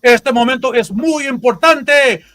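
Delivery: booming Spanish ring announcer intro; lucha libre announcer. Pretend. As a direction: call it out like a wrestling ring announcer.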